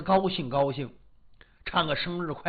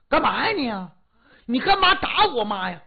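put-on upset girl; 5 semitones higher, 4 dB louder than usual. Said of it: "姑娘急了".

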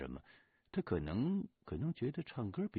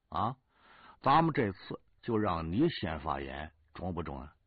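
lightly voiced bossy squad leader, a bit louder; interrupting squad leader; 5 dB louder than usual. Squad leader breaks up storytelling to open a meeting, bossy. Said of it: "就被走过来的二班长打断了".

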